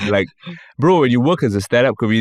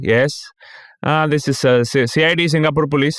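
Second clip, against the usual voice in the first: high-pitched Indian-accented fake officer; 5 semitones higher than usual. Scammer shows fake police ID, imitated Indian accent. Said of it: "it's a dude with a Indian accent".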